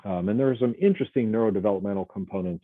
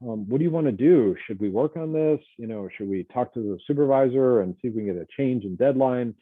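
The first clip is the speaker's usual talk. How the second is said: higher, caring voice of a colleague who just heard bad news; mildly acted heartfelt sympathy, pitched up; sympathetic concern; 3 semitones higher than usual. Comforting a crying coworker about her mother, sympathetic. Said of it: "respond in kind".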